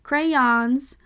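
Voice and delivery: crayons as CRAY-ONS, rising as first in a list; two-syllable crayons. Shown as a demonstration. Listing the dictionary's first option, two-syllable crayons. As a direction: sound crayons in two full parts. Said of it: "options for the pronunciation".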